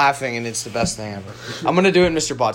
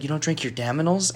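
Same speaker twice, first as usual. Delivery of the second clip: softer, deadpan retold question; calm question; 8 dB quieter than usual. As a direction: ask softly, with total composure. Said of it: "he just calmly looks".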